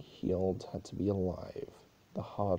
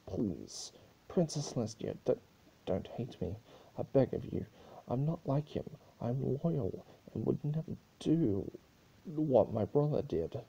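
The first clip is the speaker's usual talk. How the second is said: a touch of a sob, pleading with the princess; begging not to be hated, voice a little higher; tearful begging; 5 semitones higher than usual. Acted. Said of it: "threw himself to the floor in tears".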